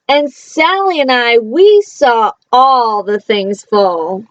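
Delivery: lively read-aloud, playful bounce on the rhymes; reading to children. Acted. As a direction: read it like a bedtime picture book. Reading a picture book aloud.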